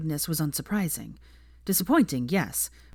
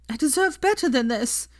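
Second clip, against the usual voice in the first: raised, firmer declaration; louder; 9 semitones higher, 4 dB louder than usual. Acted. Hermione told to say it louder, louder. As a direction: push it out louder.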